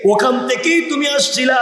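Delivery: high-pitched preacher's call. Acted. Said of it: "সবাই ডাক দিয়ে বলতেছে".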